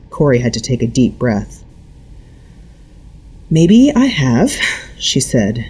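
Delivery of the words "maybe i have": slow, drawn-out words. A narrator's reading. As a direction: stretch each word out slowly. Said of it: "drawing the words out".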